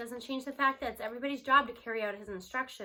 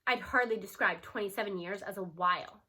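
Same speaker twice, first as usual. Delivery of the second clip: dry remark; 4 semitones lower than usual. Acted. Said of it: "the superintendent puts in dryly".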